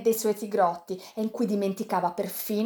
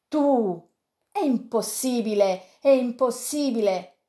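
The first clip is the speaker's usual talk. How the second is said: higher, insistent disbelief; incredulous protest; 3 semitones higher, 3 dB louder, slower than usual. Acted. Yanez hearing Sandokan was beaten, incredulous protest. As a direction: refuse to accept it, slowly.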